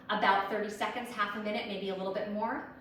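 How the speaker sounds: a little winded mid-workout; talking while slightly breathless; out of breath. Real, not acted. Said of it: "and I'm getting out of breath".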